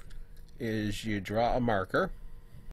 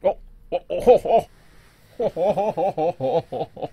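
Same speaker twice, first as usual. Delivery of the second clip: excited; 5 semitones higher, 7 dB louder, much slower than usual. Real, not acted. Excited gasping at the loaded map.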